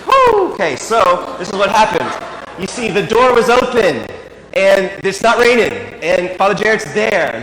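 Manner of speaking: loud, exasperated disbelief pitched high. Real, not acted. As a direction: blow off steam at the absurdity, loudly. Exasperated at absurd pilot decision.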